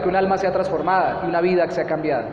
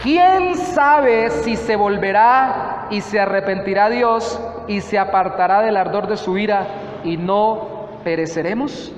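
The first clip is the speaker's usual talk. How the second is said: slow, solemn Bible reading; measured pulpit reading of scripture; slower than usual. Acted. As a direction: read the verse slowly, weighing each word. Reads scripture verse aloud.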